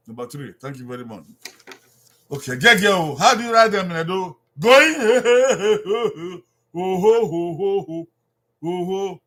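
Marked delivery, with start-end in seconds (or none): 4.6-9.2 laughing. Real, not acted. Laughing during repetition drill.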